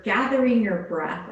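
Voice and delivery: "gathering" leaned on firmly; stress on gathering. Shown as a demonstration. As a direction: give "gathering" deliberate weight. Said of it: "I emphasize that word".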